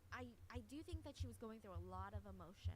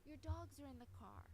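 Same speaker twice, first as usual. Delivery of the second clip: raised, higher mock yell; retold screaming; 5 semitones higher than usual. Girlfriend yelling at boyfriend beside the car, mild mock yell. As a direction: push him off, half shouting. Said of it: "she's screaming".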